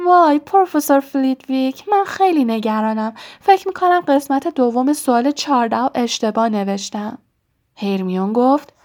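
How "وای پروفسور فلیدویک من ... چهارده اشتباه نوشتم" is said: higher, thin mocking girlish voice, loudest on the first line; mock Hermione. Ron teasing Hermione in front of Harry, thin mocking voice. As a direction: Ron mimics a fretful Hermione, hammed-up and higher. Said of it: "صدایش را نازک کرد و ادای هرمیون را درآورد".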